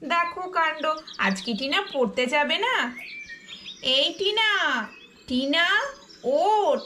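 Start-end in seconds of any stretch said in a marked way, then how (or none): 4.0-6.8 calling to wake. Acted. Waking the sleeping girl.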